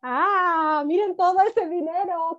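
playful amazement; excited wonder. Pretend. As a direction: marvel at the money for the kids. Showing a picture of money.

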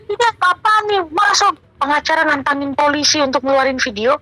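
imitating an agitated caller; retold indignant questioning, starting high; mock an accusing phone outburst, without shouting; heated confrontation. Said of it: "Vanessa nelfon saya ngegas dengan".

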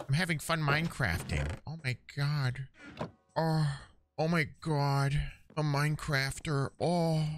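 mock enjoyment. Mock glee while being robbed.

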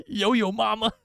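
high, slow, laughing reveal. Real, not acted. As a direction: savour the name through laughter.

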